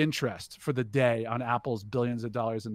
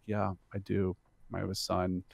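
subdued, slightly lower imitation of a sad father; retold sadness; 3 semitones lower than usual. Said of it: "he got super sad".

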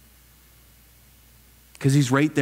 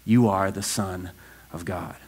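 worshipful; 7 semitones lower, slower than usual. A narrator's reading. Preacher reading the words of those in the boat, worshipful. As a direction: let it drop reverently to a hushed close. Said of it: "worshiped him".

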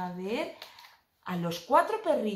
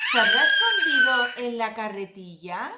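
excited; 7 dB louder than usual. Pretend. Playful hiding game question.

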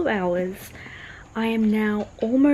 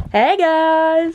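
cheery shout; 6 semitones higher, 5 dB louder than usual. Retold or imitated. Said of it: "he's like".

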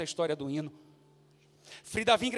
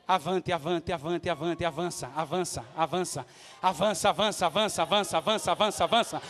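urgent exhortation; 11 dB louder than usual. Real, not acted. Urges congregation forward, building to scream. (exortação crescente até o grito)

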